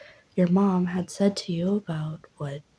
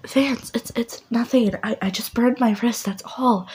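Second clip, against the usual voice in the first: mom covering up; 5 semitones higher than usual. Acted.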